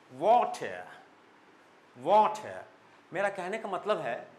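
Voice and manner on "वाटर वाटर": "वाटर" louder with rounded W, rising then falling, no final R. Shown as a demonstration. Teacher drills "वाटर" for students, loud and rounded. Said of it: "उसको हम मुंह गोल करते".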